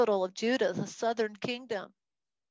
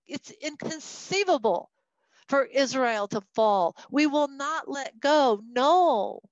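lightly acted, emphatic royal refusal; defiant king; 3 semitones higher, 4 dB louder than usual. Preacher voices the king who won't let go, mildly defiant. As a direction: dig in stubbornly, stretching the key words. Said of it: "from the king's point of view going".

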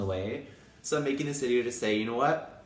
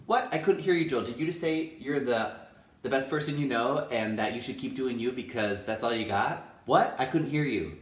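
playful mock mishearing.

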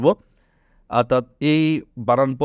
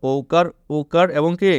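slow quiz prompt; 2 semitones higher, much slower than usual. Shown as a demonstration. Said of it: "টেকনিকটা কী মনে রাখবা?".

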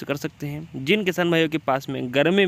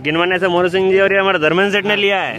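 loud price call over the crowd; rapid market auction calling; 3 semitones higher, 6 dB louder than usual. Real, not acted. Calling buyer in noisy mandi.

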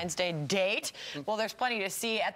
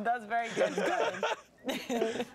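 laughing; much slower than usual. Real, not acted. Praising while laughing.

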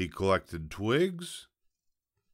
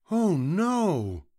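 high, loud piglet cry; screamed alarm; 11 semitones higher, 5 dB louder than usual. A narrator's reading. Piglet finding a fox at the door, crying out in alarm. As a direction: cry out high in storybook panic. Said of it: "screamed the piglet".

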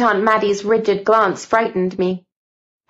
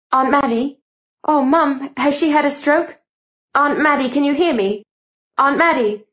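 higher, urgent pleas to a frozen aunt; anxious calling; 5 semitones higher than usual. Acted. Girl begging her rigid aunt to answer, frightened calling. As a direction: call her name, growing frantic.

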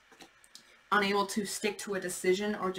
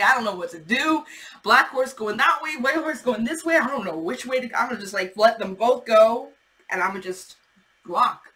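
mock lost knight; 3 semitones higher, 6 dB louder than usual. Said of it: "He's like".

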